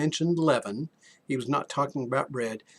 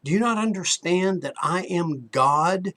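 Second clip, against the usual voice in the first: building preacher's plea; 4 semitones higher, 3 dB louder than usual. Retold or imitated. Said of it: "He was saying to us".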